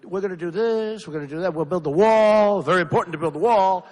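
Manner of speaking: breezy, offhand politician promise; mocking politicians mouthing a wall promise lightly; nice and lightly. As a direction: toss it off lightly, no weight. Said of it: "They do it nice and lightly".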